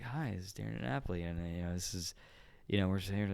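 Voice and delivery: very soft, subdued telemarketer delivery; low, calm phone voice. Retold or imitated. Telemarketer introducing himself to a customer, real low and calm. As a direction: drop the volume right down and keep it calm. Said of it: "talking real low and".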